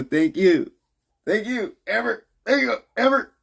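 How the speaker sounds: sing-song high thanks to Amber; squeaky thanks. Acted. Thanking a viewer playfully.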